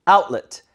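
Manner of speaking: outlet with a loud OUT and short weak ending; front stress. Shown as a demonstration. Teacher telling students to push the front, loud OUT in outlet. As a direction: punch OUT in outlet. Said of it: "앞에 힘을 줘보세요".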